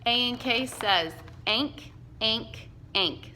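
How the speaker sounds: slow clear sounding out of ank; teacher modeling a phonics chunk for kids; phonics drill. Shown as a demonstration. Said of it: "Say it with me".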